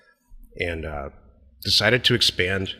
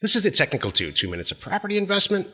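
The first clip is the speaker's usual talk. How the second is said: segment announcement. Acted. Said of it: "I should do the technical two right now".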